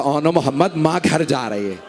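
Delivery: low, hushed farewell; soft voice. Acted. Mother's last soft goodbye to her son, hushed. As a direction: speak it softly, almost to yourself. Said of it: "एक धीमे आवाज में कहा".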